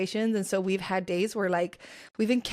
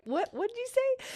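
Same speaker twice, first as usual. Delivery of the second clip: high, squeaky, incredulous; jaw-drop, can't believe she just said that; teacher stunned by a student's sass, pitched far up; shocked disbelief. Retold or imitated. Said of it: "that little extra attitude".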